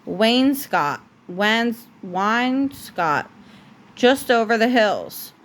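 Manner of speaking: steady, gentle bedtime storybook read; reading a story to a child. A narrator's reading. Parent reading The Princess and the Pea to a child at bedtime, gentle storybook voice. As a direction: read it like a bedtime book for a little one. Reads picture book to child.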